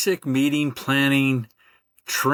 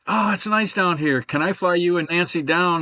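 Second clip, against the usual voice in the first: higher, lightly imitated Alabama Southern accent; Birmingham Alabama accent; 6 semitones higher than usual. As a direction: sell Birmingham in a hint of a friendly Alabama lilt, pitched up. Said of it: "Roy Evans with a Birmingham accident, accent".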